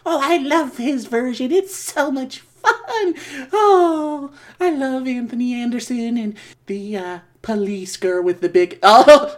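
high, giddy ghoulish voice; leering horror host; Crypt Keeper voice. Acted. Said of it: "Crypt Keeper here".

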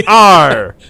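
hammed-up exasperated teacher repeating R; mock angry teacher. Friend imitates teacher scolding a student, hammed-up rant.

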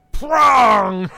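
sudden loud high shout for the bear's pounce; bear attack shout. Retold or imitated. Voicing the dancing bear attacking the old lady, loud sudden shout. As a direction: bark out the bear's attack noise. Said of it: "And he just walks up and goes".

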